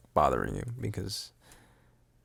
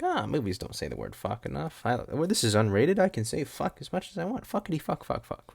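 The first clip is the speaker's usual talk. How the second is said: high, giddy mock filmmaker voice; 4 semitones higher, 4 dB quieter than usual. Podcaster imitating short-film makers who love swearing, mocking. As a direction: lightly mimic gleeful rule-breakers.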